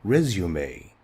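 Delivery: "resume" said REZ-yoo-may, stress on the first syllable; American pronunciation. Shown as a demonstration. Teacher modelling "resume" as rez-yoo-may for the class. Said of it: "we say resume".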